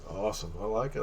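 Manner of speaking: ordinary talk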